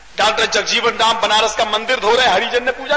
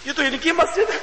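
high, softer worried thinking aloud; mild alarm; 7 semitones higher, 5 dB quieter, faster than usual. Acted. Worshipper realises he is in trouble, mildly alarmed. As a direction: play a touch of dread, pitched up. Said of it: "आमीन बोल के मैं सोच रहा हूँ".

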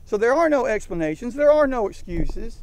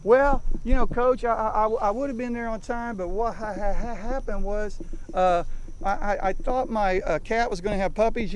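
stammering excuse-maker. Retold or imitated. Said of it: "Yeah, that's what it was".

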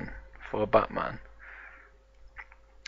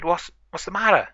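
higher-pitched, worried query; concerned question; 8 semitones higher than usual. Acted. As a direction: ask what's wrong, pitched up. Arriving to a friend's call for help.

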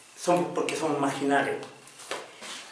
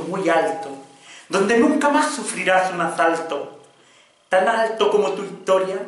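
impassioned poem recital; 2 semitones higher than usual. Acted. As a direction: declaim in rising waves, dropping at line endings.

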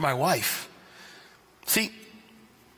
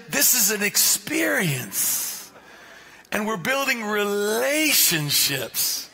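slow French reply; much slower than usual. Retold or imitated. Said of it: "They said".

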